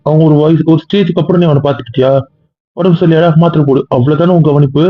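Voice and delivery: put-on rising anger, defending the boy's carer; heated scolding. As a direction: raise the pitch, argue hard with the wife. Heated argument with his wife. (கோபமாக உயர்ந்த குரலில் வாதம்)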